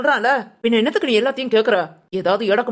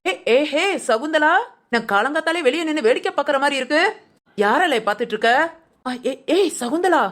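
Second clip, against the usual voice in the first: raised-voice call to a friend; calling out loudly; 3 semitones higher than usual. Acted. Neighbour calling out to Sakunthala, loud hail. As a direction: call out to get her attention. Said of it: "சத்தமா பேசாத".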